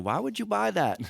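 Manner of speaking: skeptical quote. Retold or imitated. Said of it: "about people saying".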